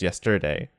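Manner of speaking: "yesterday" with the middle syllable TER stressed. Shown as a demonstration. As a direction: move the weight of "yesterday" onto TER. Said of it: "That ter being stressed".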